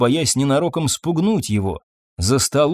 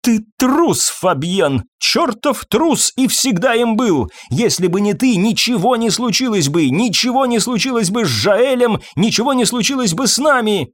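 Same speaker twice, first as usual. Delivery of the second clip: furious shouting; 9 semitones higher than usual. A narrator's reading. Irene yells at Fabien, blaming him for Jaël, furious and high. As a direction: blame him with everything you have.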